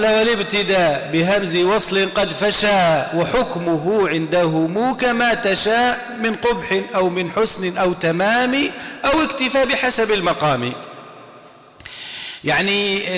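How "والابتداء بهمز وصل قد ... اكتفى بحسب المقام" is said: measured chanting of the verses; poem recitation. Acted. Teacher chants the Zamzamiyya lines for students, measured recitation. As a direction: recite the rhyming verses in a steady cadence.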